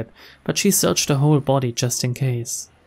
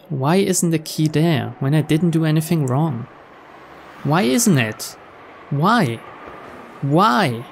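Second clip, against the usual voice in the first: frustrated and angry; 2 semitones higher, slower than usual. Acted. Girl who lost her key, pleading why in frustration. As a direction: press harder with each why. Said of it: "Maria was cold and frustrated and angry".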